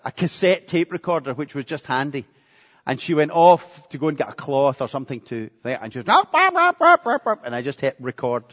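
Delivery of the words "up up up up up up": much higher, louder squeaky wife imitation; high-pitched mock wife fussing over the spill; mock shocked wife. Wife's reaction to spill, retold.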